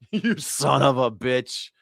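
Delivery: slow, laughing through it; a drawn-out laughing curse. Retold or imitated. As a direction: say it while laughing. Mock curse repeated laughing.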